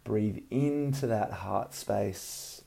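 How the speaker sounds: calm breathing guidance, unhurried; soothing massage murmur. Acted. Leads a guided meditation.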